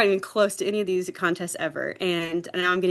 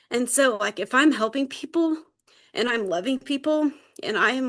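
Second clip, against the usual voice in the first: real welling-up, voice lifted higher; getting emotional; 5 semitones higher than usual. Real, not acted. Sharing what helped her, getting emotional. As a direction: fight back tears as you speak. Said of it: "Why am I getting emotional?".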